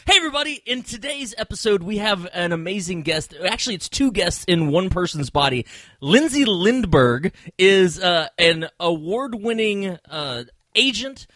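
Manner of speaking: announcer intro. Acted. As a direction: build up the guest like a showman. Podcast host introducing guest.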